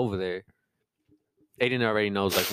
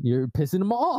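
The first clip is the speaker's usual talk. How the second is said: laughing quote; 10 semitones higher than usual. Retold or imitated. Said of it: "came downstairs saying".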